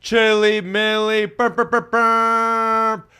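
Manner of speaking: loud, high burping chant. Acted. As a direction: belt out the burp chant. Intro shout-out, burp noises.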